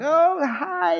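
high, bright little "Oh, hi"; a playful, chirpy hello; mock cheery greeting. Pastor mimics himself greeting people while hurrying out, mock cheery. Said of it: "I was half joking when I was like".

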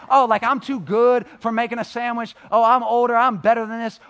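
hammed-up snooty complaint; complaining. Teen complaining he's too good for chores, hammed-up. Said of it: "I can whine and complain".

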